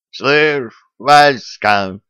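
husky, rasping call; hoarse voice. Acted. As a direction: rasp it out hoarsely. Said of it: "сиплый голос жучка".

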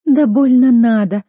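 slow, loud offended sneer; offended huffy scoff; huffy retort. A narrator's reading. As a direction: sulk out a dismissive reply. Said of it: "обиженно поджимая губы".

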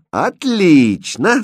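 loud, high, drawn-out exclamation; gleeful jester; laughing delight. A narrator's reading. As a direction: crow it with delight, stretching the word. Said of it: "засмеялся Шут".

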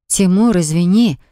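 mildly tearful apology; almost crying. Acted. Wife apologizes to her husband, lightly near tears. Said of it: "чуть не плача".

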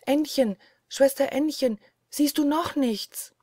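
plain reading voice

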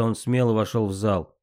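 ordinary delivery, nothing marked

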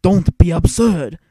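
loud, scornful villain retort; defiant viceroy. Acted. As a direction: stand your ground, scoffing at the threat. Viceroy defiantly stands his ground.

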